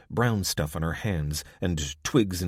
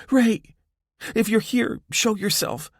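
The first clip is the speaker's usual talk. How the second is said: much higher and louder, calling into the night; shouting; 5 dB louder than usual. A narrator's reading. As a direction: yell for your sister across the river. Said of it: "She raised her voice".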